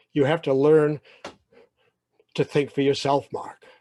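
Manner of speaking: loud, measured parental advice, lightly acted; lightly voiced dad. Dad telling his son to think, a hint of a father. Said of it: "That's my dad".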